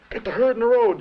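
high, loud formation call; drill shout. Retold or imitated. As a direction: bellow the order across the camp. Sergeant calls formation.

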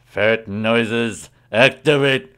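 dramatic command. Pretend. Commanding the ferret noises.

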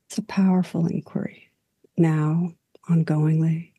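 calm guided reflection, long unhurried pauses; guided meditation. Real, not acted. Teacher guiding listeners into stillness and breath, calm meditation voice. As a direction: gently lead listeners inward, leaving space after each phrase.

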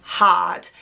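slow, drawn-out inner voice; replaying how hard it felt, slowly; recalled struggling thought. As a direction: stretch it out, imitating remembered struggle. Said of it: "is thinking".

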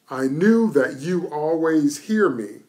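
P=A; 1 slow emphatic reading. Shown as a demonstration. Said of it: "I want you to notice what the Lord says".

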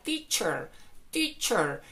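teacher with a Spanish ch sound. Shown as a demonstration. Teacher contrasts ch with sh for students. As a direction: hit a crisp ch in teacher. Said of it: "con la C H".

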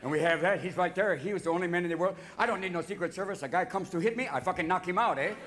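put-on French-Canadian accent, proud boasting. Canadians bragging about their prime minister, French-Canadian accent. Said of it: "They're all up there going".

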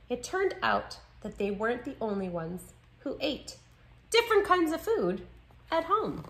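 expressive picture-book read-aloud; story narration. A narrator's reading. Narrator telling children how new friends share foods, story narration. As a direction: read with lively, clear phrasing for children.

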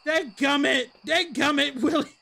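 mock old-timer cuss. Streamer fakes a cranky cuss at the ghost. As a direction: yell it like a cranky old farmer. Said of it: "I can't even say it".

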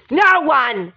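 mildly shouted, frustrated burst; yelling. Acted. Serena complaining nobody wants her, frustrated yelling. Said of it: "stop yelling at me".

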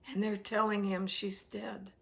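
breathy whisper, no voice. Real, not acted. Preacher whispers to the congregation that she's dead. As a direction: hush it like a secret.

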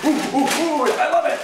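high loud ooh ooh; excited monkey. Acted. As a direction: hoot with joy like a monkey.

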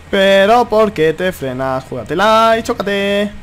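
slow, stretched-out protest; drawn-out exasperation. Real, not acted. Gamer scolding a driver who brakes, drawn-out exasperation. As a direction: drag out every word at the other driver.

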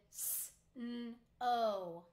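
g-r-ate said sound by sound, slowly, each sound apart; chopped into sounds. Shown as a demonstration. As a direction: break g-r-ate into its separate sounds for the class. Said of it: "I'm going to chop the word first".

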